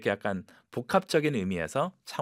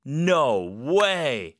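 excited; 2 semitones higher, 4 dB louder than usual. Shown as a demonstration. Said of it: "흥분한 상황에서".

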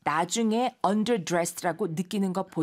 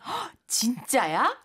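surprised; 5 semitones higher, slower than usual. Acted. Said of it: "라는 말".

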